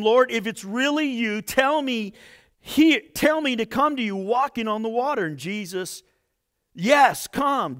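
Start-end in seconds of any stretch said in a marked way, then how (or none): 0.0-5.3 Peter calling out. A narrator's reading. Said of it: "Then Peter called him". 6.7-7.8 calling Peter. A narrator's reading. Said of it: "Jesus said".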